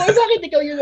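high question half-laughed; laughing question. Retold or imitated. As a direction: ask while laughing. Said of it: "Tinanong ko". (natatawang tanong)

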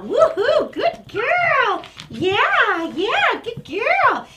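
high, stretched praise with whoops; excited praise. Real, not acted. Trainer praising the poodle's good latch, high and excited. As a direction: cheer the dog on as she latches.

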